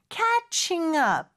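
"catching up" joined as one word; "catching up" with no break between the words; linked pronunciation. Shown as a demonstration. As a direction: slide from "catching" straight into "up". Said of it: "약간 연음이 되는 것처럼".

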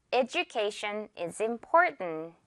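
"Education" said eh-joo-KAY-shun, slowly; j sound in education. Shown as a demonstration. Teacher modelling the example sentence, j sound. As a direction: stretch "Education" out with a j for the d. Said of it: "한 번 더요".

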